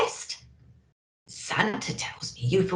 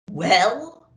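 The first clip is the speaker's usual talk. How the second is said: a touch of a big hearty Santa voice; lightly boomed, jolly old Santa; booming Santa; 2 semitones higher, 5 dB louder than usual. Acted. Santa asking the elf about Cornwall, mildly booming. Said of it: "boomed Santa".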